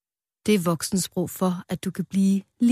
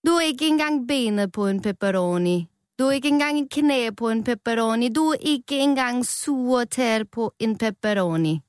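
higher teasing pepperoni taunts; mild mock yelling; 5 semitones higher than usual. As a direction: jeer at him like a rowdy topping. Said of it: "begyndte alle de andre pepperoni at råbe af ham".

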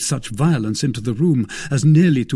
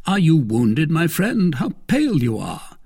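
raised, anxious questioning; a touch of alarm, pitched up at first; concerned cry; 6 semitones higher, 3 dB louder than usual. A narrator's reading. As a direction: cry out in worry for a friend.

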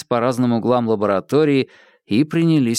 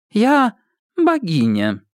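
slow, grand and higher proclamation; proclaiming; 9 semitones higher, slower than usual. Acted. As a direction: declare it slowly like a goddess. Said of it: "провозгласила Александра".

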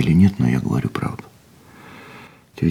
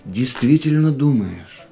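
astonished; 7 semitones higher, slower than usual. Acted. Man stunned by what Lilian really means, astonished. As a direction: rise up in amazement.

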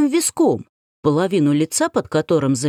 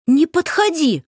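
high frightened shriek, louder; 11 semitones higher, 3 dB louder than usual. Acted. A woman in terror shrieks at the approaching man. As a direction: she shrieks at the man to stay back. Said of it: "проверещала я".

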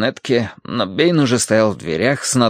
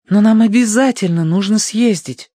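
higher urgent plea; insistent young woman; 10 semitones higher, 4 dB louder than usual. A narrator's reading. Young woman objects to cancelling the trip, insistent. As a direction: break in to insist. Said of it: "вмешалась Верити".

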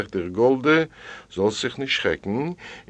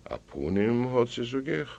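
ordinary delivery, nothing marked

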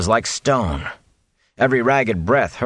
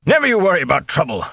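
a bluff cheerful innkeeper; jovial innkeeper; 9 semitones higher, faster than usual. A narrator's reading. The innkeeper reassuring his guests, jovial and hearty. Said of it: "Master Fitch replied jovially".

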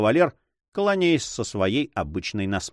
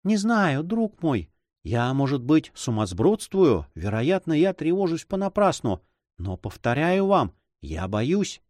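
higher-pitched, fretful woman's voice; high, worried voice sinking at the end; anxious heroine; 6 semitones higher than usual. Acted. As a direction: voice a lady doubting her own fears.

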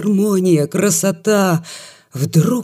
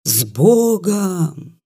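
sleepy yap; much slower than usual. Acted. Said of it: "тявкнула с просонок собака".

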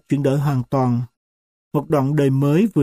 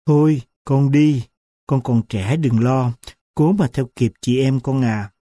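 gentle and choked; 3 semitones lower than usual. Acted. Grandmother sending her daughter off, gentle and choked. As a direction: soothe her gently through a tight throat. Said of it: "dịu dàng mà nghẹn ắng".

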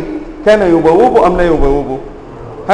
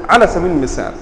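ordinary talk

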